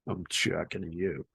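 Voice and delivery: soft Boston "I'm chucking you"; boston accent. Retold or imitated. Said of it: "that's literally how they talk".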